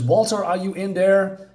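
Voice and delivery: half-hearted call into a structure; retold shout. Sam calling for Walter inside, mild imitated shout. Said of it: "he's gonna shout".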